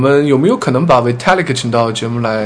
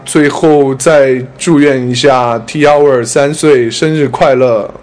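cheerful birthday wishes; slower than usual. Real, not acted. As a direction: cheer out Happy Birthday, drawn out. Birthday wish for the show.

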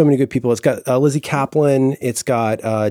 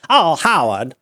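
put-on old Hollywood accent; 3 semitones higher, slower than usual. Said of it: "like, uh, old Hollywood accent".

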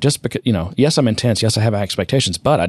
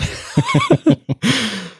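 high burst of laughter. Real, not acted. Cracking up while reading the satire. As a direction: crack up at the headline. Reading Onion article aloud.

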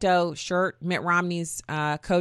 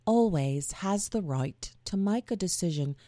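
put-on softer, different British accent, still half-hearted; second British accent try; 4 dB quieter than usual. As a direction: give the British accent another go, quieter. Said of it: "the Cockney doesn't work, does it".

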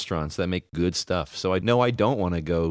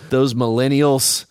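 mock outrage; 6 semitones higher, 8 dB louder, slower than usual. Mocking millennial blame headline.

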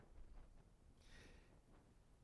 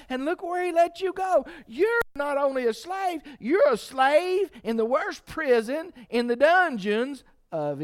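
mocking taunt building to shout; 8 semitones higher, 5 dB louder than usual. Preacher voicing the enemy jeering at Joseph, building to a shout. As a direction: taunt him, then shout it.

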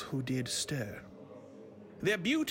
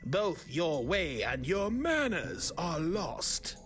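high, commanding ancient elf; dark lord; 4 semitones higher than usual. Acted. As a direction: proclaim it like an elder elf lord. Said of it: "the old elf began his speech".

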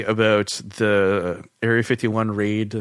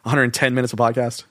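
pinching nose. Real, not acted. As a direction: clip on the nose, nasal blocked. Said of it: "He keeps putting a clip on his nose".

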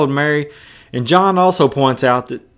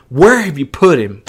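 hot question; 4 dB louder than usual. Acted. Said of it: "Jesus is hot".

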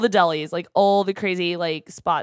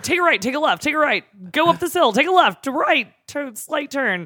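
GPS voice; 8 semitones higher than usual. Retold or imitated. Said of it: "Thanks, Google".

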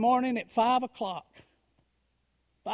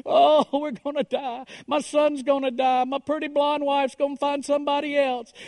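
higher, louder, hammed-up wailing; mock boo-hooing lament; 4 semitones higher, 4 dB louder than usual. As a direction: whine it out like a self-pitying sob. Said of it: "kept on with my boo-hooing".

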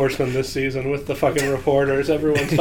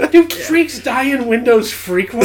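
laughing; 9 semitones higher, 3 dB louder than usual. Real, not acted. Laughing disbelief at silly line.

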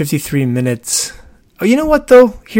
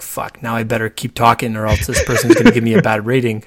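panicked thought said through a laugh; laughing driver's thought; 2 semitones lower than usual. Retold or imitated. Uber driver dreading a bad rating, voiced laughing. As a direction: laugh while voicing the trapped driver. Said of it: "they're like".

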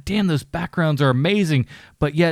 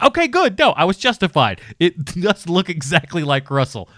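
mock triumphant; relieved glee; 3 semitones higher than usual. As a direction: jump up in pitch, vindicated. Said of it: "And I was just".

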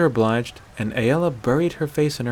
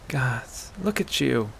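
soft, rage ebbed away; almost tender; 6 dB quieter than usual. Acted. Aela rubbing the winded hunter's back, almost tender. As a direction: say it softly, the anger gone. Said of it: "almost tender now".

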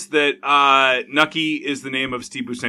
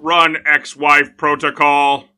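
slow, louder robot voice; toy robot voice; 6 dB louder, much slower than usual. Pretend. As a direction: read it out like a robot. Robot joke voice.

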